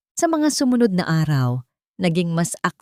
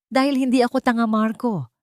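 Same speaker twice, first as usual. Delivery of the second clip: high, loud angry shout; 7 semitones higher, 4 dB louder than usual. A narrator's reading. Wife shouting at her husband Marco, loud and angry. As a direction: snap back at him, voice up. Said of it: "sigaw ni Isabel".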